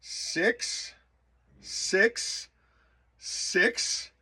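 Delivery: high, whispered mechanical count; eerie whispered machine voice. Retold or imitated. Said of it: "And then it went".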